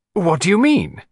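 suddenly sharper, edged. A woman questions a man whose hand has closed over hers, her voice grown sharper. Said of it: "Her voice seemed to have grown sharper".

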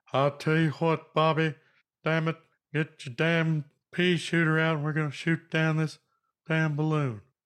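bad Texan accent. Joking about how a man in Texas would react to a balloon, in a bad Hank Hill impression. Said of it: "You would have like Hank Hill there".

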